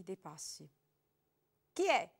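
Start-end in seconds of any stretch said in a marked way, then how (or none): 1.7-2.1 lightly voiced woman behind the door, higher; a hint of a wary woman calling out; woman asking who's there through the door; female voice. A narrator's reading. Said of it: "chiese una voce femminile".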